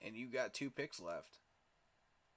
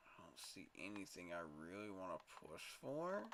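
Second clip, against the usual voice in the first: whisper; 3 semitones lower, 6 dB quieter than usual. Real, not acted. Muttering over draft picks.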